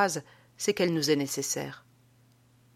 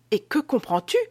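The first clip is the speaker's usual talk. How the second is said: effrayé; 4 semitones higher than usual. Acted. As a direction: question inquiète, un peu plus haute. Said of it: "fit Théophraste effrayé, lui aussi". (légère alarme dans la voix)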